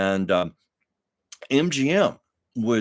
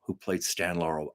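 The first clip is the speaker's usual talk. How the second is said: whisper; 4 semitones lower, 8 dB quieter than usual. Real, not acted. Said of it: "forgive me".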